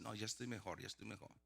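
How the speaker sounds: softly retold, trailing away; weak self-reassurance. Lying in the car telling himself, weakly reassuring.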